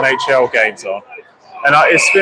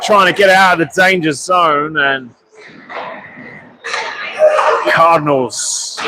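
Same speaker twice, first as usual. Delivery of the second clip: steady live hockey commentary; play-by-play; 2 semitones higher than usual. Acted. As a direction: call the game as it unfolds.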